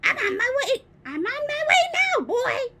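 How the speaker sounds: high, loud gleeful call. A narrator's reading. Grandma calling down to George, gleeful. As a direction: holler down the stairs in triumph. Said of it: "she called down to George".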